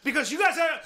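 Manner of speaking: fervent self-help tirade; worked-up preaching. Real, not acted. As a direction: hammer out slogans, drawing out key words. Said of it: "Hey, calm down".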